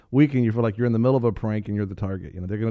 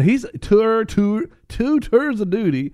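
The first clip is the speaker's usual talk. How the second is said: excited buildup; 9 semitones higher, 4 dB louder, slower than usual. Real, not acted. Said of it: "You gotta hear this".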